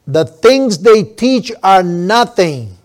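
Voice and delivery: nothing pressed slow and heavy; stress on nothing. Shown as a demonstration. Preacher to congregation, stressing nothing slowly. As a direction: lean hard on the word nothing. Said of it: "Emphasis on the word nothing".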